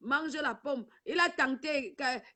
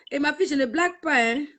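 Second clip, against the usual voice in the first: emphatic fast warning; 7 dB louder, faster than usual. Real, not acted. Insiste auprès de sa fille.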